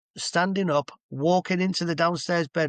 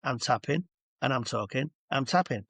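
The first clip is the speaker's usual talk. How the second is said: calm touch talk. Shown as a demonstration. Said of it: "where you're talking like this".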